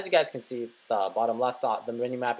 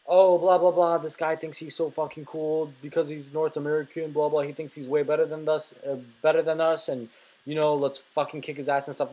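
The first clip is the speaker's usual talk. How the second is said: mocking bully. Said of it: "they basically try bullying you and think".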